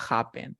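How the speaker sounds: "happen" stressed on HA; first-syllable stress. Shown as a demonstration. Teacher shows student the stressed syllable, "happen" stressed on HA. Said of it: "la fuerza de voz está en ja".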